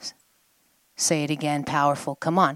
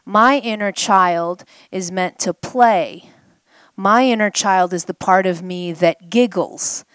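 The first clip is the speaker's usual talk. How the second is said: impassioned; 6 dB louder than usual. Real, not acted. Impassioned teaching.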